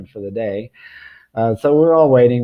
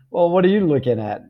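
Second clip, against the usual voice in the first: cheeky monkey; 6 semitones higher than usual. Retold or imitated. Voicing the monkey's stare, amused.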